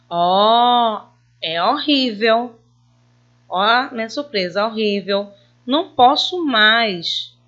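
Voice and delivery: loud, slow, shocked exclamation; exclaimed surprise. Shown as a demonstration. Teacher acting out a shocked exclamation for pupils. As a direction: cry out in horrified surprise. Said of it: "Eu exclamei toda a minha frase".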